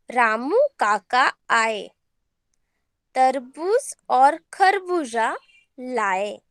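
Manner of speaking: slow, word-by-word reading for pupils; reading a lesson aloud. Shown as a demonstration. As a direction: read each word out for the class to follow. Teacher reads lesson text aloud.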